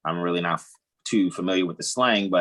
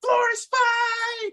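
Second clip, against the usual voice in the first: drawn-out exclaim; much slower than usual. Acted.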